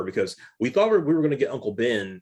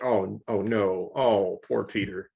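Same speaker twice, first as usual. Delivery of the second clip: slow, fading dying gasp, lightly acted; mock death rattle; slower than usual. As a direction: imitate a dying woman's last words, drawn out. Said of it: "her death rattle".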